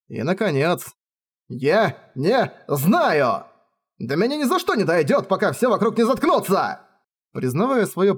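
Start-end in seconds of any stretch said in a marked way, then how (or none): 1.5-6.8 frustrated outburst. Acted. Rainer gives up, furious.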